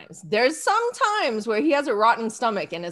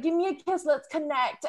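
coaxing husband; 7 dB quieter than usual. Retold or imitated. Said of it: "he's like".

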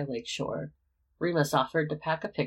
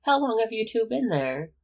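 indignant surprise; 8 semitones higher, 5 dB louder than usual. Acted. Caught, demanding to know.

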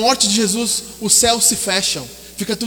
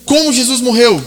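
emphatic question; 5 dB louder than usual. Acted. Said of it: "Segunda pergunta".

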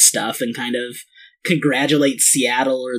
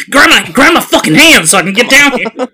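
hammed-up whiny plea; 9 semitones higher, 7 dB louder than usual. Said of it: "be like".

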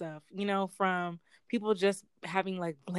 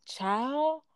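lightly voiced fake Black accent, higher; a hint of the girl's put-on accent; mock put-on accent; 4 semitones higher than usual. Imitating the TikTok girl's fake accent for a friend, higher. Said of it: "She was still talking in the accent".

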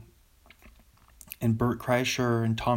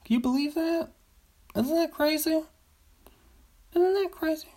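surprised. Real, not acted. Marvelling at never shooting.

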